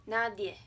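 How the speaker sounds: "Nadie" in Spanish as NAH-dyeh; diphthong demo. Shown as a demonstration. Teacher repeats example, "Nadie" with gliding diphthong. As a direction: glide the ending of "Nadie" into one syllable.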